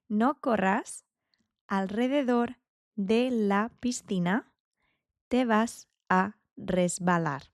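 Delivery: each word drawn out to be repeated; slow, careful repeat. Shown as a demonstration. Teacher repeating a long sentence slowly for students. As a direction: stretch "alrededor" for the learner. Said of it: "That's a very long one".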